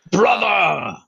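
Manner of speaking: laughing brother call. Acted.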